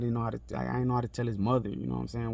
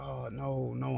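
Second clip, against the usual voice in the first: softer, higher quoted dismay; retold emotional reaction; 4 semitones higher, 4 dB quieter, slower than usual. Reliving finding his bloody homeboy, softly emotional. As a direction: replay the dismay without shouting. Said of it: "I get emotional".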